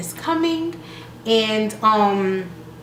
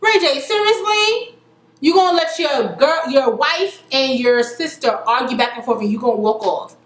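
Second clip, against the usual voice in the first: exasperated; 3 semitones higher than usual. Real, not acted. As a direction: call him out, outraged. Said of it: "And I'm just like".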